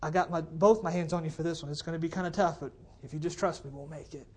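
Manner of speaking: God reassuring a believer. Acted. Preacher speaks as God to a struggling believer, gently reassuring. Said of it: "and God can say".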